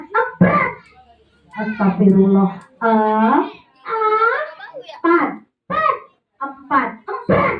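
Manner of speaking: high puppet voice repeating; squeaky puppet insisting. Acted.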